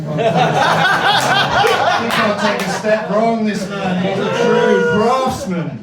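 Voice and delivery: loud, high and slow, whipping up the crowd; hyped praise. Acted. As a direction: sell it big to the room.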